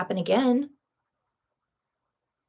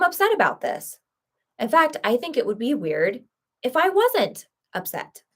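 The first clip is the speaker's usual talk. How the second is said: much higher and louder, mock-defiant and self-righteous; mock defiance; 5 semitones higher, 4 dB louder than usual. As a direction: overplay the stubborn pride in staying upset. Defiant mock self-acceptance of resentment.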